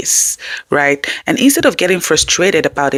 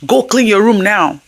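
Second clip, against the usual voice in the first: commanding parent; 4 semitones higher than usual. Shown as a demonstration. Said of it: "instead of".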